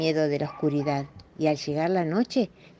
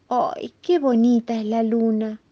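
mouse admiring; 6 semitones higher, slower than usual. Acted. Little mouse admires the moon.

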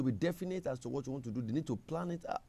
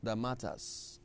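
soft prayer; 5 dB quieter than usual. Shown as a demonstration. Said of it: "can you pray and say".

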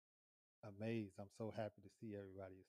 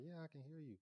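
retold daughter's reply; 7 semitones higher, 6 dB quieter than usual. Retold daughter's answer through door.

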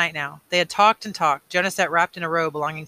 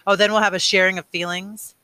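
higher, louder mocking question; nasty sarcasm; 4 semitones higher, 6 dB louder than usual. A narrator's reading. Boy jeering at evening ritual, nasty sarcastic voice. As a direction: sneer it as fake enthusiasm, pitched up. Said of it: "using the nasty, sarcastic voice again".

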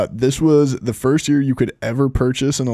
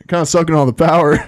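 while brushing teeth; 4 semitones higher, 5 dB louder than usual. Real, not acted. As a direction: mouth full of toothbrush. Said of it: "Sorry, I'm just brushing my teeth".

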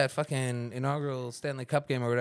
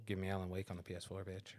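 quoted tweet; 3 semitones lower, 10 dB quieter, faster than usual. Retold or imitated. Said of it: "He didn't say it like that".

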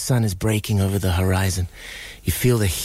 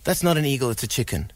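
high, emphatic no-no-no denial; insistent farmer; 3 semitones higher, faster than usual. Retold or imitated. Farmer telling neighbor the eagle is a chicken, insistent. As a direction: brush off the neighbor, sure he's right.

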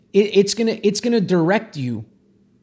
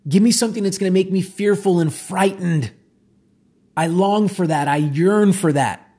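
subconscious crying out. Pretend. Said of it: "the subconscious crying out and saying".

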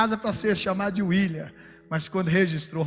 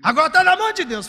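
relieved glory; 4 dB louder than usual. Retold or imitated. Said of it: "Ele fala até glória".

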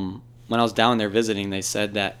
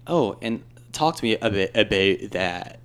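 put-on Canadian accent; slower than usual. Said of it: "and then they say".

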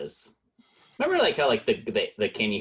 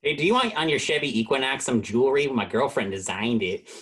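put-on Chicago accent; 3 semitones higher than usual. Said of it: "Chicago accent".

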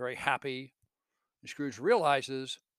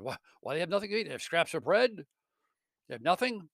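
fast, high pleading questions; Scrooge, shaken by the freezing poor, pleads in dismay; urgent dismay; 4 semitones higher, 4 dB louder, faster than usual. Acted. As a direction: rush out the shocked questions.

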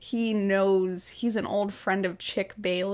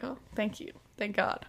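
relieved aside; 7 dB quieter than usual. Retold or imitated. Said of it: "And then he's like".

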